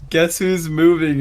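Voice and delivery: mock landlord. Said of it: "It says".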